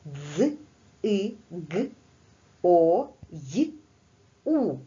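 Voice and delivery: "дз, и, г, о, й, у" each sound spoken apart, the last one rising. Shown as a demonstration. Teacher repeating the sound model for pupils, isolated sounds. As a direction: spell out every sound separately with pauses. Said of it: "Отже, маємо".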